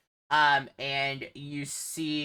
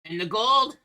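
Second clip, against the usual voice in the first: loud, higher ogre demand; 7 semitones higher, 9 dB louder than usual. Acted. Ogre to the party about his gold, loud and demanding. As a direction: demand payment as a pushy ogre.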